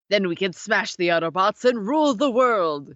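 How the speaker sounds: a touch of triumphant cartoon villain; Megatron. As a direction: read the evil plan with a light rallying lift. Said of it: "shouts Megatron".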